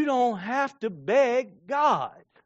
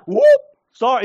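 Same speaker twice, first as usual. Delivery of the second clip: mock apology; 5 semitones higher, 11 dB louder than usual. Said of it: "the fisherman that's like".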